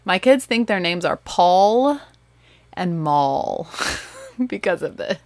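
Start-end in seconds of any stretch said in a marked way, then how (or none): 1.2-3.7 stretched-out "Paul" and "Maul", L sounded on each; Southern pronunciation. Shown as a demonstration. Mother owning up to what her kids learned from her, stretched Southern "Paul" and "Maul". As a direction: draw out "Paul" and "Maul" slowly. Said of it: "That's because of my pronunciation".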